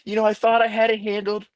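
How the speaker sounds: a hint of the speaker's easygoing inflection; Rona impression. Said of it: "That's not a bad Rona impression"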